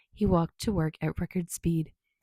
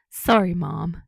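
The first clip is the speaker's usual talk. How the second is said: teasing; 7 dB louder, slower than usual. Acted. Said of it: "he teased".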